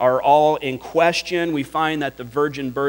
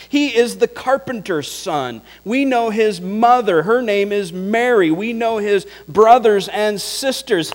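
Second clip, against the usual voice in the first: higher, louder sneering gossip; scornful village gossip; 6 semitones higher, 4 dB louder than usual. Retold or imitated. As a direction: sneer like neighbours who know his family. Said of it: "Imagine the talk".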